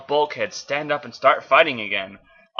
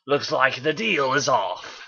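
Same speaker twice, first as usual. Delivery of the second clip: growl; 4 dB quieter, slower than usual. Acted. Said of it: "Megatron growled".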